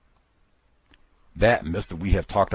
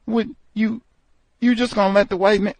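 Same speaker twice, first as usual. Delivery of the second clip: high, mocking egging-on voice; high taunting coworker; 11 semitones higher, 5 dB louder, faster than usual. Coworkers goading the tough guy, high mocking taunt. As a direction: goad him into a fight, pitched up.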